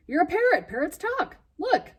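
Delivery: high, loud insisting; a boy insisting to a parrot that parrots talk; exasperated pleading. Acted. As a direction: push the bird, almost begging.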